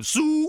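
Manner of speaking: short loud high hog call. Retold or imitated. Hog caller rings the call through the coliseum, loud and high. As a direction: yell it out to the rafters. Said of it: "the full-on hog call".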